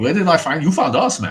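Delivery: random, generic, loud put-on Dutch accent. A speaker voices a man in the background, in a random Dutch accent. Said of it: "I'm doing random Dutch accent for this guy".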